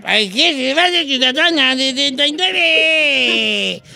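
put-on slow slurred drunken ask. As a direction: keep the drunk act going. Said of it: "Estoy imitando a un borrachito".

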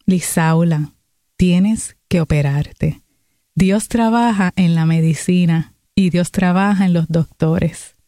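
slow, grave word from a pastor; changed, solemn voice. Retold or imitated. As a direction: deliver it slowly and weightily, like a divine message. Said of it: "su voz cambia y me dice".

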